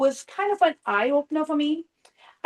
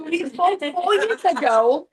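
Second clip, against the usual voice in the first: slow, with a laugh; amused reminder; 4 semitones higher, 3 dB louder, slower than usual. Retold or imitated. Client reminding the agent they spoke before, laughing. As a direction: laugh as you remind her.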